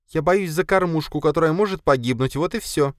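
high, sarcastic spider voice; snide spider. Acted. Spider mocks her master about her feeding trough, high and snide. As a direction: needle him in the spider's voice. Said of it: "ответила эта язва".

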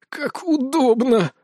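high strained croak, drawn out slowly; bitter, pained groan of sarcasm. Acted. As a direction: force it out through pain. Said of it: "прокряхтел Локи".

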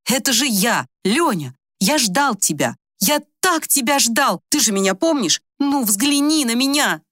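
a hint of pleading, somewhat high. Old man pleading with the woman he waited for, imploring. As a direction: beg her to recognise him.

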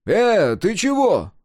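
high, loud startled question; sudden high, loud concern; startled alarm. A narrator's reading. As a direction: call out, taken aback. Alarmed at friend standing rigid.

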